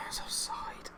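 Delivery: deflated whisper; whispered disappointment. Real, not acted. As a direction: drop to a breath as the goal dies. Goal ruled offside.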